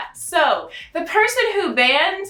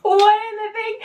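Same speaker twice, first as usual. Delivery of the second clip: incredulous; 6 semitones higher than usual. Real, not acted. Incredulous outburst.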